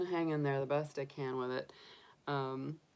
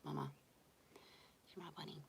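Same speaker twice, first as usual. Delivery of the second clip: bunny's voice; 18 dB quieter, much faster than usual. Retold or imitated. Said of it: "She says".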